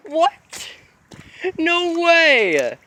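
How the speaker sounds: high, thrilled exclaim; real giddy astonishment; amazed disbelief. Real, not acted. Realizes the trick worked.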